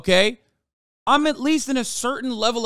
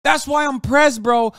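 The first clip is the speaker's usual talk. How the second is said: heated reply; 3 semitones higher than usual. Real, not acted. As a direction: snap back with a raised voice. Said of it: "Why are you so pressed?".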